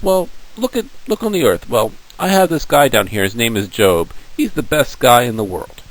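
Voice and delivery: lightly voiced God showing off his favourite; proud God. God boasting to the devil about Job, high and proud.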